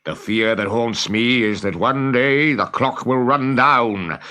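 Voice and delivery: a captain admitting his dread of the crocodile; Hook the pirate captain. Acted. Hook confides fear to Smee.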